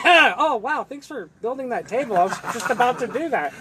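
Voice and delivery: sarcastic. Pretend. Mock sarcastic gratitude to sick person.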